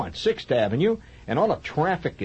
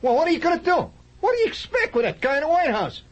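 much higher, loud griping blowhard; Slav voice; 4 dB louder, faster than usual. Retold or imitated. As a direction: complain like a know-it-all. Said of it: "vast numbers of Slavs will say to this".

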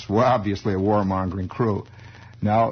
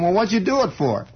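priest asking; 9 semitones higher than usual. Retold or imitated. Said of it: "Pat O'Brien says to him".

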